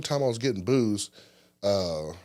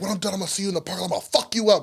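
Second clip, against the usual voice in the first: retold threat; 10 semitones higher, 4 dB louder, much faster than usual. Threatening heckler.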